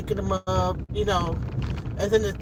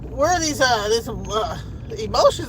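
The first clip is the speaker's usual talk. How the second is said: high, emotional outburst; real rush of emotion, pitched up; a little choked up; 6 semitones higher, 3 dB louder than usual. Real, not acted. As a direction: caught off guard by welling tears. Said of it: "getting a little choked up".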